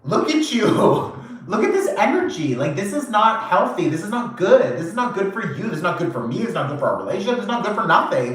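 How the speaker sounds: high-pitched, scolding list of complaints; exasperated lecture. Retold or imitated. Confronting the drinking partner, high exasperated scolding. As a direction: lay into them about their unhealthy habits. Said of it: "And you're like".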